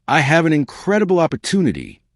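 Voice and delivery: bright with possibility; bright, excited. A narrator's reading. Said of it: "her voice bright with possibility".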